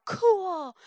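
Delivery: mock wowed exclamation; group going "cool". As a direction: act out a crowd's drawn reaction. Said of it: "we'd all look at it and go".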